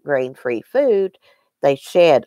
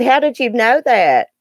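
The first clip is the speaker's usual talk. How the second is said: retold surprise; 7 semitones higher, 3 dB louder than usual.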